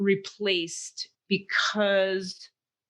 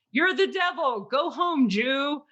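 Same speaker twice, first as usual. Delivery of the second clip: mock shout; 5 semitones higher than usual. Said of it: "So they could be shouting".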